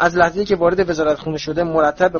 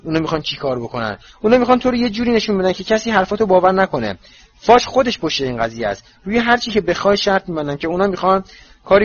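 anxious and quick; 4 semitones higher than usual. Acted. Hermione quickly reassures Harry, sounding a bit frightened. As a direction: hurry to reassure, a little scared. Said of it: "ترسیده باشد، به سرعت گفت".

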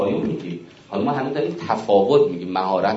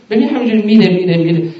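emphatic building; 10 semitones higher, 8 dB louder, faster than usual. Real, not acted.

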